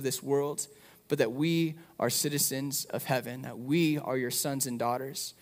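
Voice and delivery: gentle pastoral prayer. Acted. Closing prayer for congregation.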